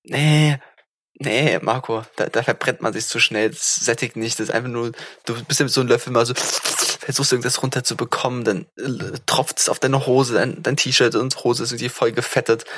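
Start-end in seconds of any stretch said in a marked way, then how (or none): 5.2-12.7 eating soup while talking; slurping soup. Real, not acted. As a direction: talk between spoonfuls of soup. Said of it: "das Schlürfgeräusch war extrem akkurat". (schlürft beim Reden Suppe)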